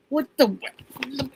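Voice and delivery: slow, high puzzled what; confused. Retold or imitated. Wife baffled he didn't say it back, slow high confusion. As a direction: let the confusion stretch out. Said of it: "And I go".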